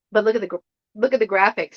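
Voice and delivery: hiccuping mid-sentence; with hiccups. Real, not acted. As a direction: talk through the hiccups. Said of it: "Sorry, I got the hiccups".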